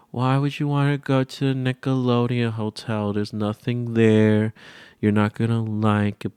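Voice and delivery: slow, lightly put-on parent voice; mock parent. Parents dismissing the Nickelodeon Hotel, lightly mocked. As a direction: lecture like a doubting parent.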